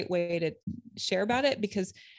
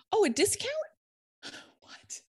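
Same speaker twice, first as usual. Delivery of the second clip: excited; 14 semitones higher than usual. Retold or imitated. Mock excitement at discount.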